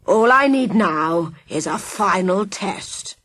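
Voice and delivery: villain relishing his poison; menacing villain. Acted. Villain explains antidote.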